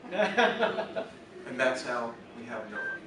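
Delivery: drawn out, laughing punchline; slow punchline. Acted. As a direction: land the joke slowly with a chuckle. Punchline delivered slowly.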